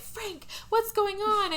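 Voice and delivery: imitated high-pitched, slow questioning; Lady Bird. Lady Bird arriving to find Frank, high slow mock concern. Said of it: "Lady Bird shows up".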